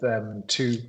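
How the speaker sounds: interrupted by a hiccup. Real, not acted. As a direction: talk through a sudden hiccup. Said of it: "excuse me for hiccuping".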